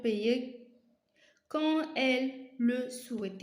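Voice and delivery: slow, careful classroom read-aloud; slow dictation to students. Acted. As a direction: read the exercise slowly for the class. Reads exercise aloud slowly.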